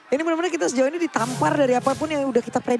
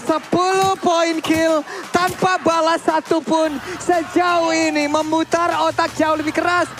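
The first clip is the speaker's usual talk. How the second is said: excited; 3 semitones higher, slower than usual. Real, not acted. Co-caster hyping the score.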